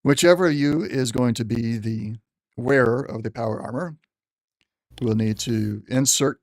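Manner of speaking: general's voice. Acted. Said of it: "trying to use the general's voice".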